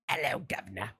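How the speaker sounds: low, mock British menace; movie title voice. Announcing an old British horror film, low hammy voice. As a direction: drop down for a dramatic title reveal. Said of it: "It's called".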